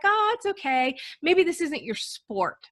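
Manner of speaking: lightly voiced parent letting a child down gently; consoling parent.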